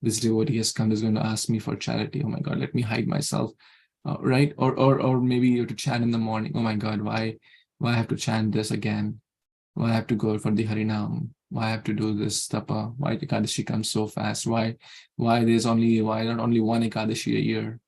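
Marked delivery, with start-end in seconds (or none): 0.0-3.5 low mock grumble; lightly acted weary complaint; disgruntled. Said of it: "with a disgruntled mind and mood". 6.5-17.8 low, subdued mock whining; lightly acted reluctant complaint; disgruntled. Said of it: "with a disgruntled mind and mood".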